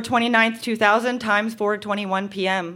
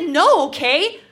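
insistent refusal; 4 semitones higher, 4 dB louder, slower than usual. Acted. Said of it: "And then I just said".

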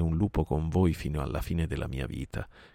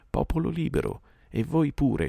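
higher-pitched rallying address; calling to the assembly; 10 semitones higher than usual. A narrator's reading. Old wolf leader addressing his free people, raised call. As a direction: open high, addressing the whole pack.

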